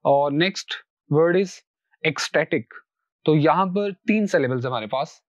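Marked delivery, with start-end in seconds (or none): 2.1-2.6 "ecstatic" stressed on STA; second-last syllable stress. Shown as a demonstration. Teacher introduces the next word, "ecstatic" stressed on STA. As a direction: hit STA in "ecstatic", let TIC fall. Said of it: "आखिर से दूसरे".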